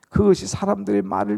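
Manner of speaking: normal talking voice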